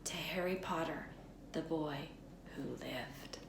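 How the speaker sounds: soft unvoiced whisper, fading; hushed whisper. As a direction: whisper it like a secret toast. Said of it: "saying in hushed voices".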